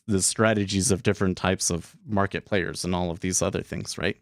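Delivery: running out of air at the end; words fading on the last breath. Real, not acted. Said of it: "Feel a little out of breath".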